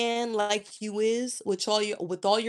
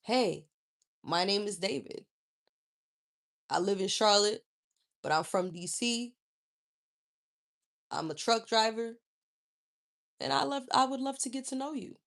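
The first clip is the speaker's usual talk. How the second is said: lower, softer, easygoing introduction; a light take on a calm gentleman; polite man introducing himself; 3 semitones lower, 4 dB quieter than usual. Shown as a demonstration. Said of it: "like a grown ass fucking man".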